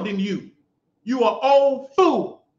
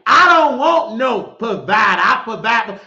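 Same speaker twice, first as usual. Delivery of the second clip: mocking shout; 6 dB louder than usual. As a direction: bellow her words back at her in mockery. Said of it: "stop telling me".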